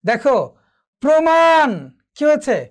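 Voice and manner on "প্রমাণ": প্রমাণ as pro-maan, higher pitch; raised, emphatic model of প্রমাণ with a clear o; o-ending প্র. Shown as a demonstration. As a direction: round the first vowel of প্রমাণ to "pro". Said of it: "ওকারান্ত হয়েছে".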